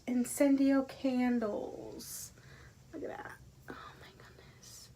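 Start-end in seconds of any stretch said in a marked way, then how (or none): 2.9-4.9 hushed, barely audible marvelling; real breathy amazement; awed whisper. Real, not acted. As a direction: whisper it in wonder. Marvels at the candle.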